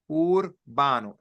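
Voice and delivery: Urbano said slowly with a tapped middle R. Shown as a demonstration. Teacher shows the simple middle R in Urbano. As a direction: tap the R in Urbano gently. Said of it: "Middle R".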